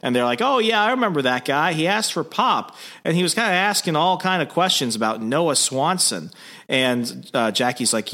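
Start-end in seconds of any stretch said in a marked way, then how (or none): 0.4-6.3 lightly voiced small-town local, pitched higher; a hint of a chatty bar regular, higher voice; Minnesota local. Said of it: "speaking to some of the locals".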